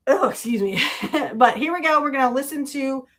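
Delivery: talking through hiccups; hiccuping between words. Real, not acted. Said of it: "I got the hiccups".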